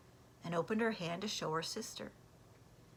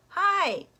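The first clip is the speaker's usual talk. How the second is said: much higher, louder call from the window; 13 semitones higher, 13 dB louder than usual. Acted. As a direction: shout down to the yard. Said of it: "Pete called down".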